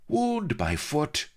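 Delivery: high, slow, withering scorn; scathing. Acted. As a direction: sneer at the question. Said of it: "scathed Blood".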